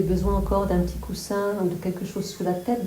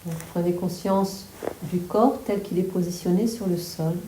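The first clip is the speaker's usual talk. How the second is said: calm, measured relaxation guidance; guided meditation. Real, not acted. Yoga teacher settling listeners on the floor, guided meditation. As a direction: settle them gently, with long pauses.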